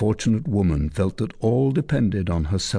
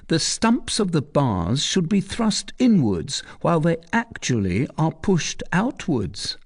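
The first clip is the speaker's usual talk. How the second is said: higher, reasoning; clever soldier; 8 semitones higher than usual. Acted. Soldier arguing to Tristan, reasoning. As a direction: make the point cleverly.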